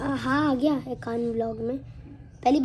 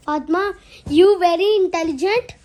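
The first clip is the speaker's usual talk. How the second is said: sarcastic self-praise; 3 semitones higher, 5 dB louder, much slower than usual. Real, not acted. Sarcastic self-praise after dropping phone.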